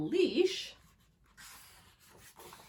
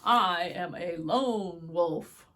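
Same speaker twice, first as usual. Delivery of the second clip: proud wolf; 3 semitones lower, 9 dB louder, slower than usual. Acted. Wolf declares himself.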